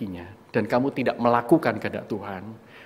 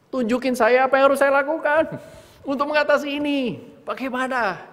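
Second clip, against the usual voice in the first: desperate plea; 11 semitones higher, 5 dB louder than usual. Retold or imitated. Desperate prayer to God.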